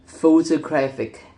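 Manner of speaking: "photographic" slowly, stressed on GRAPH; slow demonstration of "photographic": photo-GRAPH-ic; stress before suffix. Shown as a demonstration. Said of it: "stress shifts again to the syllable immediately before the suffix".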